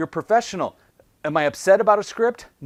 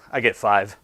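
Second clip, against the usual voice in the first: cocky boast; 7 semitones lower than usual. Retold or imitated. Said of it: "our really cocky guy".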